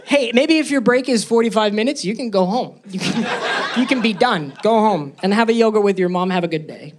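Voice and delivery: put-on baby yourself in a sweet high voice; a soothing pep talk to myself; gentle self-talk shirt. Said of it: "If I had a shirt made, it would say".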